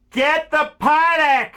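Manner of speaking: high, loud, slow command; loud urging. Real, not acted. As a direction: bark the order at him. Urging viewer to buy.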